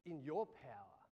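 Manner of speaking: God answering low and soft. Retold or imitated. God gently correcting a doubting pastor, low and soft. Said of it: "And he says".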